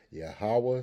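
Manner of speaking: "Yahweh" stretched to three syllables, yah-HAH-wah; three-syllable "Yahweh", open final a; pronunciation variant. Shown as a demonstration. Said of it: "Some pronounce it as".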